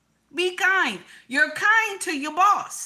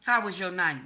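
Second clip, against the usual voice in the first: sweet morning greeting; 7 semitones lower than usual. Retold or imitated. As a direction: ask it tenderly, like to a husband. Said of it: "'Cause I do that shit to my husband".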